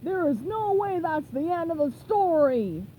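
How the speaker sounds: indignant seagull. Acted. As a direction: squawk it slowly in disbelief. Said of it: "A seagull landed on the wheel and said".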